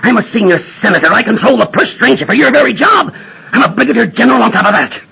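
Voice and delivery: a senator barking his authority at a general; pulling rank. Acted.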